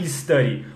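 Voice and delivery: "study" said as "ee-study"; I before study. Shown as a demonstration. Teacher showing what not to say, "study" with opening I. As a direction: add a wrong I before "study". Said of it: "não é study".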